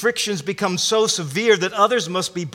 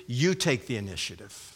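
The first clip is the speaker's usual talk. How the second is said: low, softened echo; addressing the second; 7 semitones lower, 8 dB quieter than usual. Acted. Preacher voicing Paul to the second woman, low and soft. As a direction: drop down for the other party. Addressing each of two women in turn.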